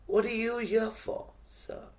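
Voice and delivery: lightly voiced chirpy guide, high-pitched question; chirpy man. Chirpy man greeting a young traveller on the walk, lightly acted high voice. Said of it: "bright, chirpy, face shining man".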